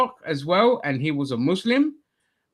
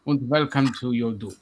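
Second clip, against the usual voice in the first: mock-ominous German welcome; German accent; 5 semitones lower than usual. Presenter welcomes audience to doom, mock German accent. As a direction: lower put-on German accent. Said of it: "doing that bloody accent".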